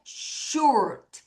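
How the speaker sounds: "short" opened on a long sh; SH sound. Shown as a demonstration. Teacher explaining S-H to students, slow "short" with a clear sh. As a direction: draw out the sh in "short". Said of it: "에스에이치 발음할 때".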